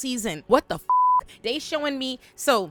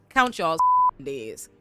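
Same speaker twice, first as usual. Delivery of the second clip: warning taunt; 3 dB louder, slower than usual. Real, not acted. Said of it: "let me tell you".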